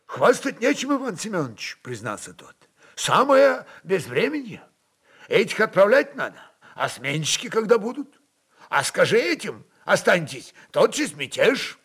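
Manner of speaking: an anxious captain admitting bad news; worried streltsy chief. Streltsy chief answers voevoda.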